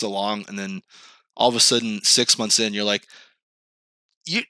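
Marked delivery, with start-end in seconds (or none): 4.3-4.4 high, whiny mock woman's voice; lightly pitched-up imitation of a woman; mock girl's letdown. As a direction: play the woman friendzoning him, pitched up. Mimicking a woman letting him down.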